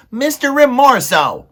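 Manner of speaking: very high, loud desperate mouse cry; shouting. A narrator's reading. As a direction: shout for the rat's attention, panicked. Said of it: "he shouted".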